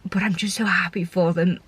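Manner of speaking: whispered through real tears, barely voiced; tearful whisper. Real, not acted. Foster carer whispering through tears about the child leaving. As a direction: breathe it out, fighting back crying. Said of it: "I'm gonna get emotional here".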